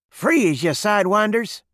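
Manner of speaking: loud, high, sharp order; snapped command. A narrator's reading. Dusty holding the saloon at gunpoint, snapped shout. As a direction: snap it out to stop everyone dead. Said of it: "snapped Dusty Fenton".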